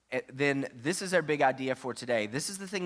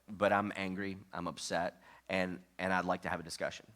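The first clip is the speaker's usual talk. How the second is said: gentle calm demo; 4 semitones lower than usual. Shown as a demonstration. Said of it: "here's how you wanna start a conversation with your spouse".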